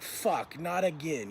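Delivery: low, subdued retold groan of dismay; weary resignation. Cellmate reacting to trouble next door, low and resigned.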